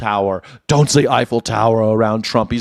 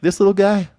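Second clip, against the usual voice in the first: quoting cop; faster than usual. Retold or imitated. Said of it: "and he's like".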